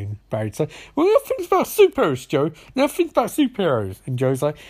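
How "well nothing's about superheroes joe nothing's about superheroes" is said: high, exasperated retort; mock indignant complaint; acted protest. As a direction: protest it as Barry, pitched up. Barry protesting to Joe, acted.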